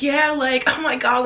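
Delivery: put-on high, loud gushing girl voice; mocking friend. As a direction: squeal it like she's thrilled. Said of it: "let me not try and mock her".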